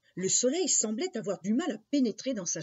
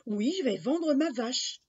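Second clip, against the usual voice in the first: put-on higher, mildly proud boy's voice; proud child; 5 semitones higher than usual. Jacques tells the stranger his errand, lightly proud. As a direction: announce it with a child's pride. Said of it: "dit fièrement l'enfant".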